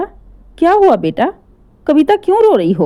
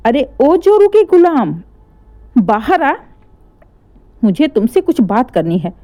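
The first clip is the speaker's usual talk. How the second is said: angry yelling. Acted. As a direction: yell him out of his room in fury. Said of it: "इतना तेज-तेज चिल्ला रही थीं".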